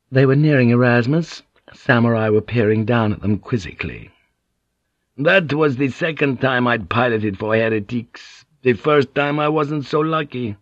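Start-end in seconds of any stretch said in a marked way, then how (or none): 5.2-10.6 lilting, animated foreign-sailor voice; boisterous Portuguese pilot. Acted. Portuguese pilot telling Blackthorne how Morrow treated him, boisterous. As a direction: play a talkative, swaggering Portuguese pilot.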